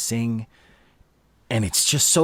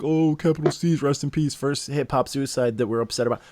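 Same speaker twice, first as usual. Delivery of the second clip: mocking fan voice; 3 semitones higher than usual. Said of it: "you fans who, like".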